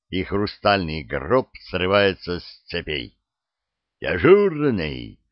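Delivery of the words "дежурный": loud, high shouting into a mic; yelling into radio. Acted. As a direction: bellow into the walkie-talkie. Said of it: "орёт в микрофон так, что закладывает уши".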